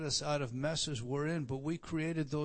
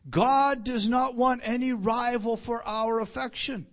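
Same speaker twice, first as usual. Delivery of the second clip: raised, slow preaching voice; preaching loud; 7 semitones higher, 9 dB louder than usual. Real, not acted. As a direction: proclaim it loud and slow to the church. Preacher raises voice, full force.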